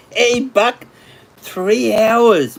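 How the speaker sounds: high, bright call to a friend; calling out excitedly. Real, not acted. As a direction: shout out to Buck, proud. Calling out to viewer Buck.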